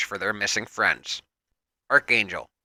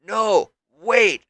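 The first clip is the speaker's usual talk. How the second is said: screaming out; 8 semitones higher than usual. A narrator's reading. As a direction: shout to stop her. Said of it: "Sam screams out".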